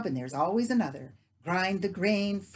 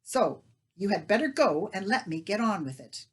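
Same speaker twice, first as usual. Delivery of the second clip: scolding; 3 semitones higher, 6 dB louder than usual. Acted. Leah scolds neighbour.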